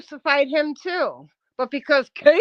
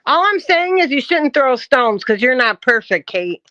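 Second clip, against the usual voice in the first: forceful, raised-voice reproach; loud scolding; 7 dB louder than usual. Real, not acted. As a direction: drive the point home loudly. Scolding someone in a quarrel.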